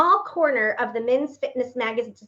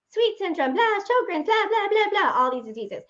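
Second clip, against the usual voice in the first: rising higher with each item, exasperated; exasperated list; 9 semitones higher than usual. Retold or imitated. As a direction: pile up the diseases, higher and higher. Listing diseases to the woman.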